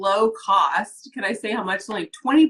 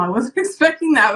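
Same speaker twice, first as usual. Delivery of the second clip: teary laugh; 7 semitones higher, 4 dB louder than usual. Real, not acted. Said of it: "God, I feel myself getting emotional".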